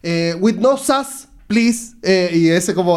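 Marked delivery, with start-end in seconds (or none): 0.4-1.9 high, mocking Latino-accented English; mock a Latino guy's English. Friend imitates a Latino guy's English, high and mocking. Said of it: "ese inglés latino".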